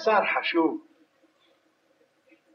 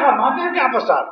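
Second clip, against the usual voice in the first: mock yell; 6 semitones higher than usual. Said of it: "אני אצעק לך".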